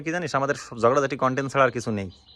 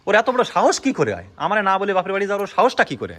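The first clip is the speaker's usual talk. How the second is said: indignant rant in raised pitch; outraged; 3 semitones higher than usual. Real, not acted. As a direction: demand how anyone dares. Rants about wife's nerve.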